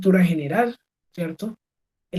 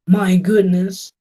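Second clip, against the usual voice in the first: drawn-out my goodness, a touch of mock shock; slow mock surprise; 6 dB louder, much slower than usual. Shown as a demonstration. Teacher showing the class a mock-surprised my goodness. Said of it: "En inglés tenemos".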